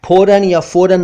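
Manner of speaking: फौरन high, as "phoran" then "foran"; mispronounced फौरन. Shown as a demonstration. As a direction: say फौरन wrongly with rounded "o", first aspirated p, then f. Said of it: "फौरन या फौरन नहीं".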